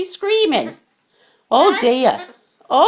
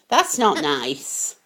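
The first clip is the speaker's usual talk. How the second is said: mock scolding; 12 semitones lower, 5 dB quieter, slower than usual.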